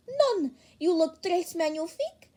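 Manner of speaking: high excited exclamation. Acted. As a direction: gush with delight. Enthusiastic fashion character.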